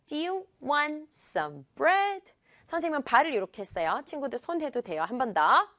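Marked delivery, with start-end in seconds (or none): 0.1-2.3 "want" and "bread" stressed in rhythm, rising at the end. Shown as a demonstration. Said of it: "여기를 강조해주면 돼요".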